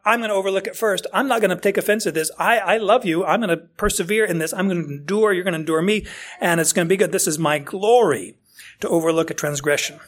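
bright eager promise to bear with you; eager forgiving voice. Retold or imitated. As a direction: speak like someone racing to forgive first. Voicing a forgiving believer.

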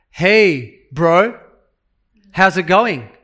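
casual, offhand hey bro; flippant greeting. Retold or imitated. Preacher mocking a flippant modern greeting. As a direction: toss it off like a careless greeting. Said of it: "Paul wasn't saying this flippantly".

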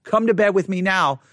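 a touch of a commanding mistress; demanding. Shown as a demonstration. Preacher demoing Potiphar's wife as mildly demanding. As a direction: lay down the order to the slave. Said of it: "in a very demanding way".

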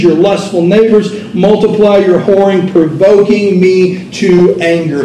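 steady, lifted reading of scripture from the pulpit. Acted. Preacher reads Ezekiel to the congregation, proclaiming. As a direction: proclaim the passage like a prophet.

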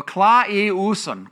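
klaiuson said slowly with a careful KLAI-oo-son; Greek word. Shown as a demonstration. Preacher sounding out the Greek for wail, careful. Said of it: "closest I'm gonna get to the Greek word".

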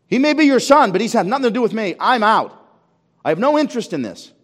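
rising to a high, loud furious rant; angry refusal. Acted. Elder son angrily refusing his father, loud and high. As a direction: spit it out as the sulking elder son. Preacher voicing elder son's protest.

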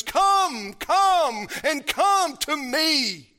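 high, pleading call to come; Jesus inviting. Acted. Preacher voicing Jesus calling all to come, high and pleading. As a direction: call them in, slow on the last. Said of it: "all they've ever heard from him is".

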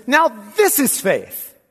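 slow, stressed NOW; emphatic now. Shown as a demonstration. Preacher giving the dynamic sense to the congregation, emphatic. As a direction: punch "Now" and draw out "this is faith". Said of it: "capture something dynamic".

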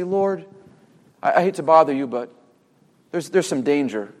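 mock-timid, softened, hesitant approach; gentle waking. Preacher imagines disciples politely waking Jesus, gentle and hesitant. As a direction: break it to him gently, haltingly. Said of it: "they touch him very gently and say".

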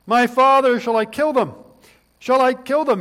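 high, loud, eager plea; eager king. Acted. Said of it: "Listen to what the king of Israel says".

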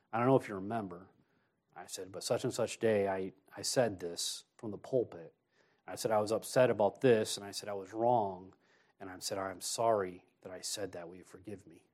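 low, subdued confession; hushed, contrite retelling, fading at the end; humble apology, retold.

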